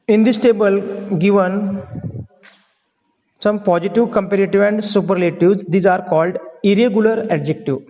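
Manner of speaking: very slow, word by word, dictating to the class; slow dictation. Shown as a demonstration. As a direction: spell it out slowly for students to write down. (धीमे-धीमे बोलकर लिखवाना)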